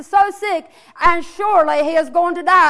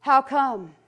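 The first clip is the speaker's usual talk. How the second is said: voice from the tomb; 4 semitones lower, 5 dB quieter than usual. Acted. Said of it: "he hears a voice in the drama".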